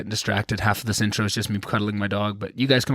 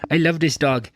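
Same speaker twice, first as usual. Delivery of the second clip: higher, gushing dog-owner voice; 5 semitones higher, 3 dB louder than usual. Real, not acted. Owner gushing love to his dog, baby talk. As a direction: coo it at your puppy. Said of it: "constantly baby talking with this little muffin".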